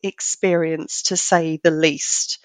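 hoarse from being unwell; rough, croaky sick voice; gravelly voice. Real, not acted. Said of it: "my very gravelly, sexy voice".

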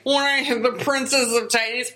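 high mocking sing-back, trailing into gibberish; condescending imitation. Host mimicking preacher talking down to wife, condescending. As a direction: parody his condescending way of talking. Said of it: "it sounded very condescending".

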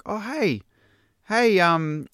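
high, bright quoted woman; lightly voiced eager mum; chirpy lady voice. Voicing lady at school gate.

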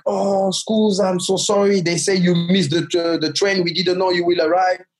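lightly voiced apologetic man; apologetic driver. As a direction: say sorry to the stranded boy. Apologetic driver finally arrives.

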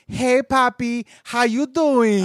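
high, drawn-out flirty greeting; flirty come-on. Acted. Woman greets a good-looking American, flirty. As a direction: stretch it out like a mock catcall.

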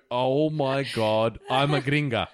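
mock horror. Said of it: "you'll go".

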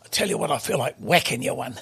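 gruff mock telling-off, pushing it; old man rips into the host for fun; a pensioner playfully scolding the host; staged scolding. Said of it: "have a staged argument".

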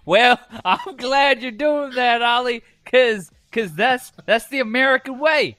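loud, drawling Southern hick host; redneck cowboy voice. Acted. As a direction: ham up a good old boy cowboy. Hosts playing redneck Tennessee cowboys.

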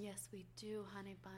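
very soft, hushed sweet-talk; mock soothing. Co-host showing off soothing voices to listeners, mock soothing. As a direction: lull the listener, playfully. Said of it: "We have very soothing voices".

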